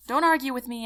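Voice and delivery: loud, clipped order from the desk; stern command. Acted. General snaps at the private, loud and stern. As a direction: shut her down hard.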